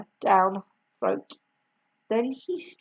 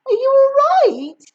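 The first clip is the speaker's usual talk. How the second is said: higher, polite question; polite George; 14 semitones higher, 6 dB louder, faster than usual. A narrator's reading. George asking Grandma, higher polite voice. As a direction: ask sweetly, all innocence. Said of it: "George asked her politely".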